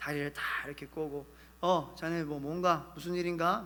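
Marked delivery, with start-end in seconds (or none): 2.0-3.7 arrogant, haughty, condescending, talking-down voice. Acting out a colonel addressing a private, mock-arrogant. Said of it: "거만한 다 목소리로".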